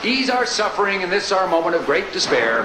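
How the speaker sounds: put-on pompous old-fashioned preacher prayer; mock biblical prophet. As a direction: intone it like a grand King James prayer. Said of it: "a perfect example of how your prayer should look and sound".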